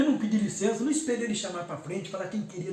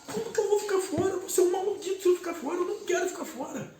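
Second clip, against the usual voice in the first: choked-up, pleading, higher-pitched retelling; tearful plea; 5 semitones higher than usual. Retold or imitated. Begging brother César for communion, choked up with tears. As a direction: relive the tearful plea half-voiced. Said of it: "ainda chorando, engasgado".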